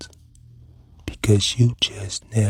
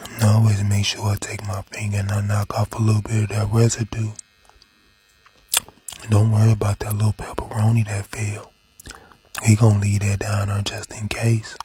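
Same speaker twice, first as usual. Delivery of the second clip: ASMR whisper. Acted. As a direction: whisper it right into the mic.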